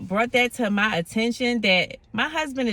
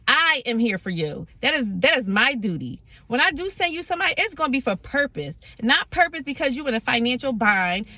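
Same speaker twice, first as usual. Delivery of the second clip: God's tone; 2 semitones higher than usual. Retold or imitated. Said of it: "exactly the tone that it came in".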